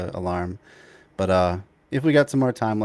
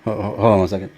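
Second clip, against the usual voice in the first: shouting over fire alarm; 9 dB louder, faster than usual. Real, not acted. Fire alarm starts during call.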